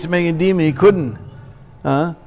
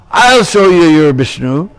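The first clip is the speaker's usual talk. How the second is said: menacing threat; 5 dB louder than usual. Acted. King before smashing the pillar.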